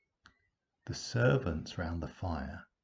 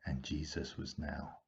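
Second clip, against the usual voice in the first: soft sad whisper; whispered ending; 2 semitones lower, 7 dB quieter than usual. A narrator's reading. Narrator whispering Jesus is alone, hushed sad. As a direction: let it fall to a lonely hush.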